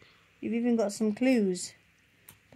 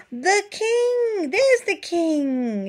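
higher, gasping discovery; excited gasp; 9 semitones higher, much slower than usual. Real, not acted. Reader gasps to the child at the king. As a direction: gasp it out in delighted surprise.

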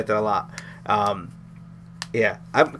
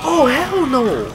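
sudden high startled cries, much higher and louder; shocked yelling; 10 semitones higher, 7 dB louder, much slower than usual. Real, not acted. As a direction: yelp in real fright at a jump scare. Jump scare in horror game.

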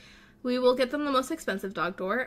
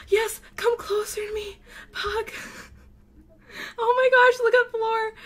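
much higher, louder cute-overload squeal; delighted squeal; 10 semitones higher, 4 dB louder than usual. Real, not acted. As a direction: gush over the dog. Sees Floor with the pugs.

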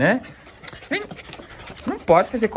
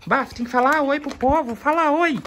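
higher sing-song urging; coaxing pet talk; 9 semitones higher than usual. Real, not acted. Owner urging his dog to greet the viewers, high coaxing voice. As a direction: coax the dog into saying hi.

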